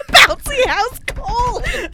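high slow giggling words; laughing. Real, not acted. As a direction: savor it through laughter. Laughing delight.

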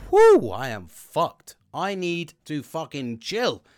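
slow, spent groan of exhaustion; loud weary exhale, then drag the words; exhausted sigh. Retold or imitated. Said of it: "you go home and you go".

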